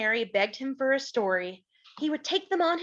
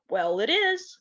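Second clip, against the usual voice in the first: whispered, hushed and secretive. Acted. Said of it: "said Pa".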